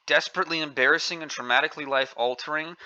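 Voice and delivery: "desperately embarrassing and traumatically life-altering" rattled off fast with a scornful rising end; fast, sneering recital of "desperately embarrassing"; parroting the phrase with contempt; mocking quote. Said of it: "that's not the way that a young girl talks".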